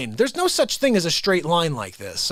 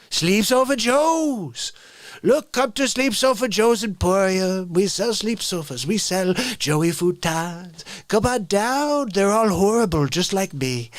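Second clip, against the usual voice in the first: hammed-up store pitch; 3 semitones higher than usual. Mock furniture store ad.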